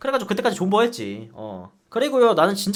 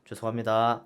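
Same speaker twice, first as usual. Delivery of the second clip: meek apology; 8 semitones lower, 7 dB quieter than usual. Retold or imitated. Scolded soldier apologizing.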